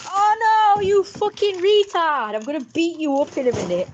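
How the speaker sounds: high, loud outburst, then easing down; sudden threatening husband rant; abusive husband. Acted. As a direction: play an abusive husband flying off the handle. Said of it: "he's also an abusive husband".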